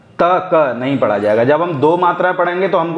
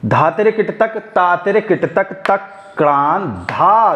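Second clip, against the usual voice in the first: rhythmic bol recitation; 3 semitones higher, slower than usual. Shown as a demonstration. Teacher showing the off-beat round of the tihai. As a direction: shift the accent onto किट तक. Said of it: "तो देखिएगा".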